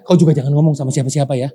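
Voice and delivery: fast, hushed-tone telling of a secret; quick gossip. Retold or imitated. Gossiping neighbour passes a secret along, fast. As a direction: rattle it off like passing on gossip.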